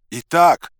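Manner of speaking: loud, high-pitched yell; high, forceful shout. A narrator's reading. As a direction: holler it at someone hard of hearing. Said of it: "заорал я".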